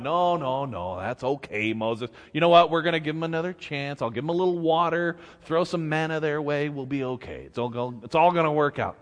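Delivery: calm a friend down gently; soothing God. Retold or imitated. God calming an angry Moses, mild soothing. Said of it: "God's going".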